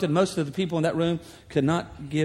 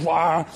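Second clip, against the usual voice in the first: imitated engine rev. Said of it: "just making a lot of noise".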